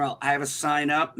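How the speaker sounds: level, courteous "Well, I have a sign up"; polite version. Retold or imitated. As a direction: say it like good customer service would. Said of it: "what should have been in customer service is".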